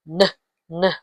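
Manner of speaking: "N, N" as two short nuh sounds. Shown as a demonstration. Teacher spelling Belinda, N sound. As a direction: sound out "N" alone, not the letter name. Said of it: "next letter".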